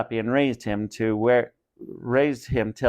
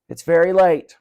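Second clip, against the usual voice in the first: groaning; 6 semitones higher, 7 dB louder than usual. Acted. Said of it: "Mister Harding groaned".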